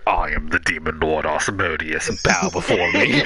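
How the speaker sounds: booming demon lord voice; dark lord. Acted. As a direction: announce yourself as a menacing demon lord. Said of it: "and you just hear".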